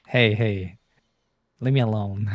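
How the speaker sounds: Rez voice. Retold or imitated. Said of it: "how I imagine Rez to sound like".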